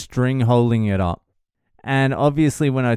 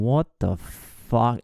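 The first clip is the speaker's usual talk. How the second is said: slow, stretched "what the fuck"; drawn-out retold bafflement; baffled disbelief; slower than usual. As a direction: act out staring in disbelief. Staring at the kids, baffled.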